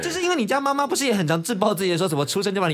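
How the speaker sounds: laughing. Real, not acted. Teasing about friend's mother.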